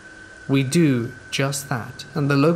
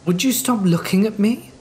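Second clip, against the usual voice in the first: raised, higher shout of frustration; retold yell; 8 semitones higher, 4 dB louder than usual. Yelling at the staring neighbour, pitched-up shout. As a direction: snap at the staring neighbour, loud and high. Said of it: "I yelled".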